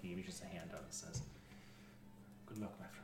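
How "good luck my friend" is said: put-on soft French-accented farewell; gentle French-accented character voice. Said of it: "I was doing a French accent".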